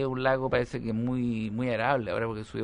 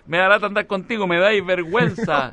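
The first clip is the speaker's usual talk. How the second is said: put-on whiny teen; 6 semitones higher, 6 dB louder than usual. Teen embarrassed by parent.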